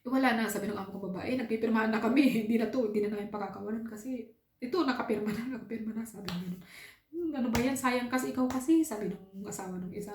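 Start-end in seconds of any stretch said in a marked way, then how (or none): 1.3-6.1 loud, laughing insistence, higher; laughing boss lady. Retold or imitated. Employer quoted, laughing, insisting. 7.1-8.9 loud, higher reproach; a rival husband's regretful blame; blaming husband. Retold or imitated. Rival's husband quoted blaming wife.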